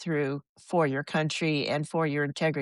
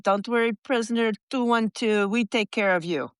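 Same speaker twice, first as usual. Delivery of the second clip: higher, mock-kindly guard voice; guard's reassurance; 4 semitones higher than usual. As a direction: play the guard soothing a prisoner, pitched up. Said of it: "they said".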